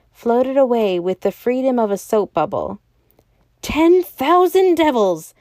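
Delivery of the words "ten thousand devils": high, loud, slow shriek of rage. A narrator's reading. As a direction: scream the curse at the sky. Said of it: "shrieked the secretary".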